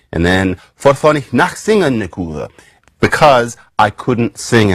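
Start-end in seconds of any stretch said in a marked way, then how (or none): 0.7-2.5 put-on reconstructed Old English accent with a Germanic lilt; half-invented Old English accent. Shown as a demonstration. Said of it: "I don't know what accent this is".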